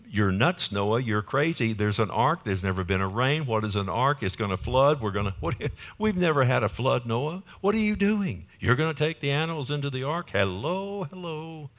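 mock the builder of the ark, climbing to a high sneering "hello"; mocking crowd. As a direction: taunt him like the crowd laughing at Noah. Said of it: "Everybody was mocking him".

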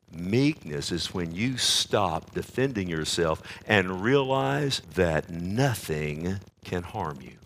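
tender reflection. Acted. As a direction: let it sink in, savouring it.

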